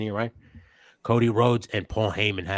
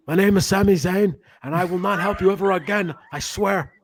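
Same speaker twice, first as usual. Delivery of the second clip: much higher, louder Canadian wrestler voice, laughing at the end; 11 semitones higher, 5 dB louder than usual. Retold or imitated. Host does Sami Zayn in his Canadian voice. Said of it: "That's just my Canadian voice".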